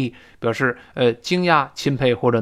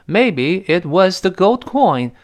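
hesitant reading; 5 semitones higher, much slower than usual. Shown as a demonstration. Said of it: "要这么说".

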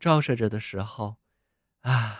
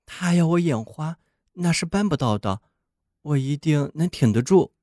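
snowman voice; 5 semitones higher, 3 dB louder than usual. Acted. Snowman speaks in the story.

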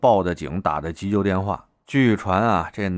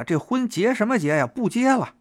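furious high outburst; 11 semitones higher than usual. Retold or imitated. Girlfriend calling off the wedding at her boyfriend, high furious outburst. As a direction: pitch jumps way up, shrill with rage.

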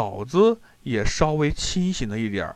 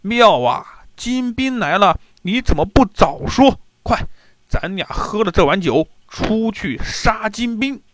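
gleeful battle cry; 5 semitones higher, 3 dB louder than usual. Acted. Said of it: "哈哈大笑说".

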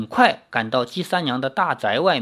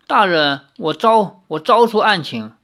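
wry smile; 3 semitones higher, 4 dB louder than usual. Acted. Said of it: "李逍遥苦笑着说".

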